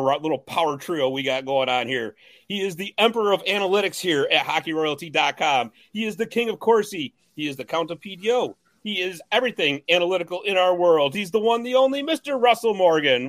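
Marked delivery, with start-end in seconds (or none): 2.5-13.3 lightly hammed announcer roll-call, rising to the name; hype introduction. Host introducing the analytics co-host, mock-grand hype introduction. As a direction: build up to a big name reveal.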